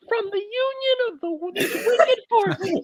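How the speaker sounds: high, slow, crying villain voice; dramatic reading voice. Acted. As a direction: ham up the ominous reading. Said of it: "you can't do the voice".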